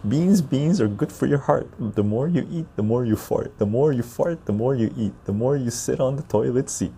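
sing-song rhyme recital; reciting a poem. Shown as a demonstration. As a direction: recite the ditty with a bounce. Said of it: "Deep Lake sharing it".

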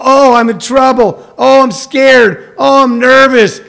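hammed-up worry, each plea stretched out; mock panicked caller. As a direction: imitate a needy caller moaning in distress. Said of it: "We only get the call".

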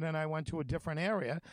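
put-on broken English with a German accent. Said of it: "broken German accent".

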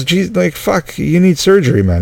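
lightly voiced doctor in disbelief; exasperated doctor. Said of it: "I'm just gonna talk like I was the doctor".

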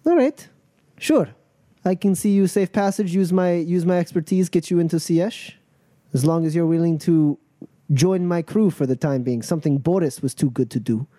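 lightly voiced boss, high opening then settling; a hint of a leader conceding a deal; Natasha, agreeing. Crew leader offers passage for service, agreeing on terms.

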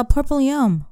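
real Asian accent with a round "yum" for yam. Real, not acted. Wife explaining ube to husband, Asian accent. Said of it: "sounded like you were going full Asian".

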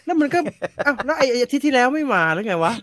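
incredulous viewer venting; baffled outburst. Real, not acted. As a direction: throw up your hands in disbelief.

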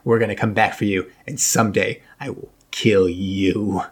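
menacing captain vow. Retold or imitated. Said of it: "that's what the captain says".

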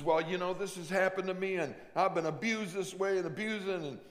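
lightly voiced angry girl; hurt teen girl. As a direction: voice the wounded girl pushing back. Abused girl telling her story.

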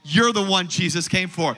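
impassioned, driving sermon delivery; fervent preaching. Acted. Preacher offering good news to the sick, fervent preaching. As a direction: preach it with conviction, leaning on key words.

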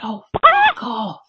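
loud, slow, spat-out curse; slow loud dismissive curse at a cyclist; mock snarl. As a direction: imitate him telling you to get lost. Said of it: "like that".

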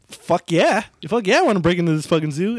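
fast, keen agreement; eager yes. Retold or imitated. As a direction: rush it out all fired up. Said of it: "I was like".

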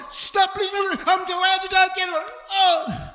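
high, loud frantic outburst; hammed-up agitation. Agitated man losing it in a Three Stooges bit, comic frantic yell. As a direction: play it as an over-the-top panic. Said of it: "all of a sudden they just go".

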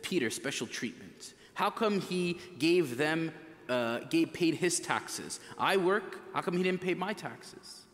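acting out jealous, put-out disciples; mildly aggrieved, mock-jealous protest; jealous complaint. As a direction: complain like an envious follower passed over. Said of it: "you imagine they're jealous".

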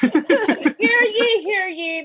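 mock royal proclamation call; lightly hammed-up herald announcing news; town crier. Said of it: "announces it like he's the president".

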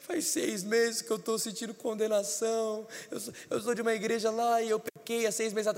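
mock-tearful, stretched-out wail; imitated crying. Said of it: "Ele começou a chorar e falou".

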